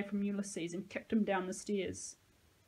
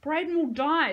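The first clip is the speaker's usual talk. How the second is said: high, loud frantic cry; panicked scream; 7 semitones higher, 10 dB louder than usual. A narrator's reading. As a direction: scream it in terror. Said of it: "Sahalia screamed".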